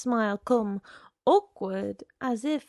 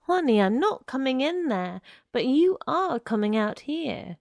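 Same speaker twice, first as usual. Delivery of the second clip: louder, higher, insistent; talking over her; 4 semitones higher, 6 dB louder than usual. Acted. Man at the door cutting through her protest, loudly insistent. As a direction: override her with firm, punched insistence. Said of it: "talking right through her voice".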